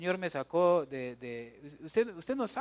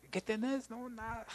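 acted exchange; 8 semitones higher, 7 dB quieter than usual. Acted dialogue, sulky reply.

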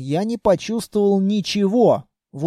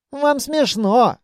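reproachful sigh; 6 semitones higher, slower than usual. A narrator's reading. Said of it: "с укором вздохнул шпион".

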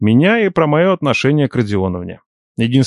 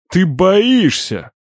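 revelation; 7 semitones higher, much slower than usual. A narrator's reading. Uncle's sudden realization.

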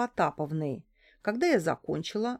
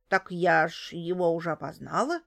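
surprised. A narrator's reading. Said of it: "удивилась женщина".

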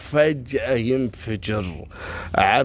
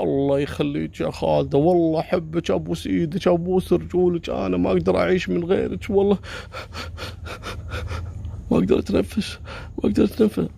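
desperate begging; 4 semitones higher than usual. Retold or imitated. Stalker begs Khalida desperately.

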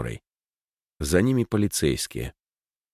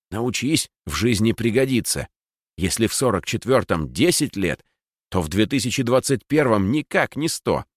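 clearly enunciated; 3 semitones higher than usual. Acted. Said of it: "отчётливо выговаривая слова".

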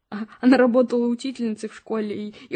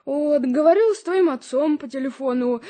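tearful; 3 semitones higher, 4 dB louder than usual. Acted. Mother tells of tense family news.

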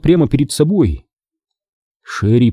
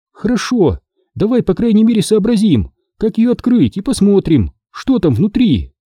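higher, eager suggestion; lightly voiced Sherry; 9 semitones higher than usual. Sherry suggests opening the camera, higher eager voice. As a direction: voice Sherry pushing on.

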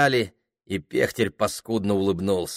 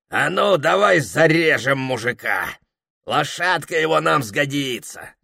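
louder, menacing bandit voice; a robber proposing murder with glee; fierce bandit; 7 semitones higher, 5 dB louder than usual. Acted. Pekhtel threatens the peasant.

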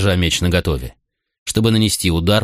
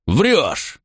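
cutting retort; 7 semitones higher than usual. A narrator's reading. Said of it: "отрезал Макрон".

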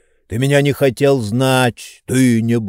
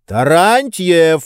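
menacing shout; 6 semitones higher, 3 dB louder, slower than usual. A narrator's reading. Oblomov cutting off Tarantyev, stern slow shout. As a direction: stretch the name out slow and threatening. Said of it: "грозно крикнул Обломов".

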